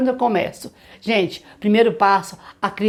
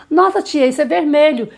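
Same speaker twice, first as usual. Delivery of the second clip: put-on child's excited voice; 6 semitones higher, 4 dB louder than usual. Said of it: "child excitedly names color".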